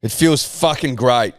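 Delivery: slow, deadpan monotone. Retold or imitated. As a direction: drag it out flat and bored. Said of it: "that's about how he said it".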